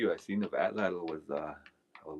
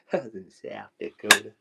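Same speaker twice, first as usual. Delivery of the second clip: loud, higher mock southern drawl; cowboy drawl; 4 semitones higher, 12 dB louder than usual. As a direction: repeat the punchline in hammed-up cowboy twang. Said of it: "all them cowboys talk that way".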